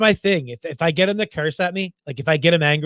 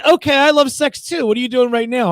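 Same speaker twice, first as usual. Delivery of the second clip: mock flirty scammer; 6 semitones higher, 4 dB louder than usual. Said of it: "She said".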